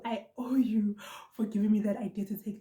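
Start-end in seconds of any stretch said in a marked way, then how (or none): 0.0-1.0 hushed, breathy-free whisper of gratitude; whispered thanks. Real, not acted. Thanking Zinhle for the idea, whispered gratitude. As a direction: lean in and whisper your thanks. Thanking a friend, heartfelt aside.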